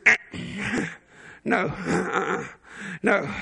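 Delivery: low, soft, slow dismissive no; a mock-weary Jesus waving it off, low; Jesus killing the disciples' vibe, slow and low; Jesus says no. Jesus refusing disciples' excitement.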